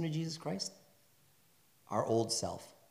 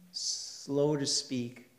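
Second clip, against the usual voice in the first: slow scripture reading; 5 semitones lower, 6 dB quieter, slower than usual. Shown as a demonstration. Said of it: "reading verse slowly".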